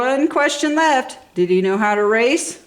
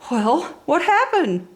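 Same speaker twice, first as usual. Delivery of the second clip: slow, eager and a touch higher; lightly voiced eager Lightning; hopeful race car voice; 6 semitones higher, slower than usual. A narrator's reading. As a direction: lean in hoping for good news. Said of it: "hoping for a happy ending".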